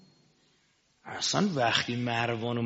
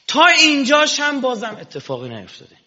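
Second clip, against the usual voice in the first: rhetorical tease; 11 semitones higher, 9 dB louder than usual. Acted. Preacher's rhetorical teasing aside.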